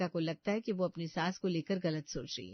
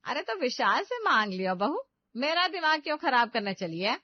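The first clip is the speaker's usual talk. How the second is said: mother-in-law jeering, louder and higher; taunting; 5 semitones higher, 5 dB louder than usual. Acted. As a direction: taunt the daughter-in-law, dismissive. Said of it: "सुनाते हुए कहती है".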